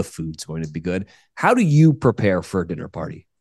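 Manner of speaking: stuffy nose from a cold, nasal; talking through a blocked, nasal nose. Real, not acted. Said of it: "please excuse my nasally voice today".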